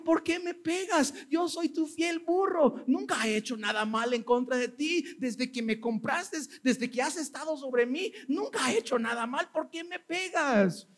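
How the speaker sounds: high pleading donkey voice, easing down midway; lightly voiced wronged donkey. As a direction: play the hurt, faithful donkey begging. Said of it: "y dijo".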